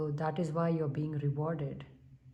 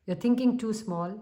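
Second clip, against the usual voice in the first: "thinking" pushed higher and louder; insistent, raised voice; "You're thinking too small" raised and louder; 5 semitones higher, 5 dB louder than usual. Real, not acted. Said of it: "I raised my voice like that".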